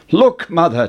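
put-on high, eager boy's call; excited boy. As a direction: cry out with delight. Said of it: "Jack cried".

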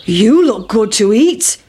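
slow, heavy mooing cow voice. Acted. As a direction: drawl it like a big cow. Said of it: "shouted the cow".

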